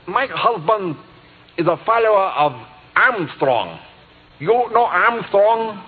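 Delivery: put-on a touch of German accent as she asks. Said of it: "She still had her German accent".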